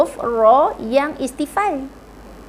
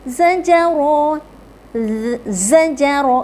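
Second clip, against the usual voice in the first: quick. Shown as a demonstration. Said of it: "Okey, laju".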